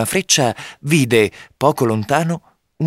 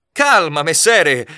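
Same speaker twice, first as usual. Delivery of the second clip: high, urgent call to calm down; crying out; 6 semitones higher, slower than usual. A narrator's reading. Robin to the charging gentleman, crying out. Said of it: "gridò Robin".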